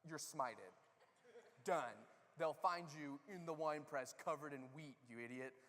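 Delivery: a lightly voiced mock-stern God; joking wrathful God pronouncing doom; mock smiting God. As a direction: pretend to smite him, low and dismissive. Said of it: "if I was God, I'd be like".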